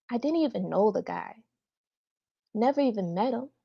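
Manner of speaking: earnest daughter confronting her mother; heartfelt audition monologue, measured with pointed pauses; dramatic monologue. Acted. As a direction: plead your case to Mom, hurt and insistent.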